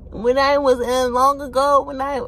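high, hammed-up rambling voice, stumbling over words; mocking a houseguest's boring old story. A high, hammed-up rambling imitation.

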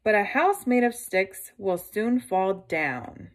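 lightly voiced woodcutter giving a warning; a hint of an old tradesman cautioning. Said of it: "answered the woodcutter".

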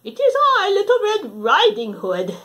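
put-on wolf squeaking out a high girl voice; bad fake little girl; wolf faking Red. Wolf at grandma's door faking Red, high and loud. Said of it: "in his best Little Red Riding Hood imitation".

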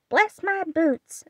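high, slow astonished parrot squawk; funny parrot croak. Acted. Parrot yanked by the tail, astonished squawk. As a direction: stretch it out like a startled bird. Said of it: "in such a funny way".

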